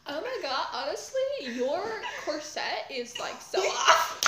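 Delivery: bitchy twenties flapper. Pretend. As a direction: sneer at her corset like a mean girl. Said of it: "a bitchy seventh grader in the nineteen twenties".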